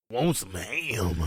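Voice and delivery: put-on slow, drawn-out old man voice; slow, creaky old-timer. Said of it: "Old man people voice".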